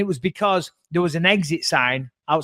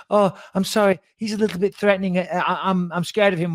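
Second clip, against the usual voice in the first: mimicked timid hostess; 3 semitones higher than usual. Mimicking hostess claiming fear.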